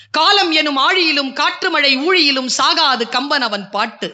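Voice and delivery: slow, measured verse reading; careful first reading of the verse; slow poem recital. Shown as a demonstration. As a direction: read the couplet slowly, weighing each word. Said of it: "எப்படியா?".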